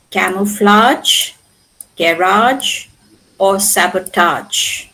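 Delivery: CAMOUFLAGE, GARAGE, SABOTAGE one by one with long "ahj"; French -age ending. Shown as a demonstration. Teacher shows the French pronunciation retained, long "ahj" endings. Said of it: "retained the French pronunciation".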